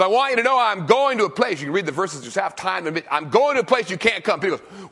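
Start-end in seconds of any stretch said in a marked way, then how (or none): 0.0-1.6 voicing Jesus. Jesus voiced in retold story. 3.1-4.4 voicing Jesus. Jesus voiced in retold story.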